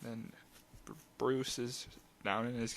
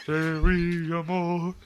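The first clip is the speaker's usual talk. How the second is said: loud, hammed-up Cajun accent; mock Cajun accent; 5 semitones higher, 9 dB louder, much slower than usual. Host calls out as Gambit in a hammed-up Cajun accent. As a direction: shout it in a bad Cajun accent. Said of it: "the best Cajun accent I've ever heard".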